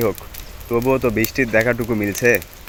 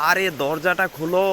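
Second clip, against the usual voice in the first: high, slow, strained call to open the door; frightened call through the door; panicked plea at door; 5 semitones higher, 4 dB quieter than usual. Acted. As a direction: beg to be let in, still shaken. Terrified man home, begging at door.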